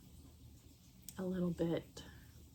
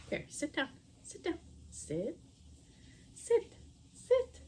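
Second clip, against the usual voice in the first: rising firm sit commands; dog commands; 9 semitones higher than usual. Real, not acted. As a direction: command the dog, getting sharper.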